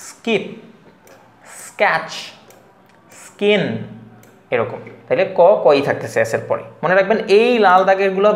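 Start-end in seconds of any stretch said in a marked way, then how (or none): 0.1-3.6 স্কিপ, স্ক্যাচ, স্কিন with plain k after s; unaspirated k. Shown as a demonstration. Teacher listing examples for learners, স্কিপ, স্ক্যাচ, স্কিন with plain k. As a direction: separate model words স্কিপ, স্ক্যাচ, স্কিন, no puff on k. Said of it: "সেক্ষেত্রে কই বলবো".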